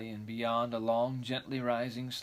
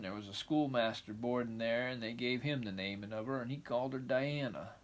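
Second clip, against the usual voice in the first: rambling grandpa story; 4 dB quieter than usual. Acted. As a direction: drift on like a shy old farmer. Matthew muses about the name.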